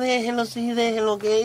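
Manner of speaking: words slowly forced out past gritted, clenched teeth. With other kids making a mess in your house, acting out speaking through clenched teeth. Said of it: "como con los dientes apretados".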